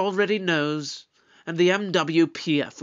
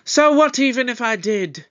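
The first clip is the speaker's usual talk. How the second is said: raised, forceful challenge; defiant retort; 4 semitones higher, 4 dB louder than usual. Acted. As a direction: throw the challenge back at them.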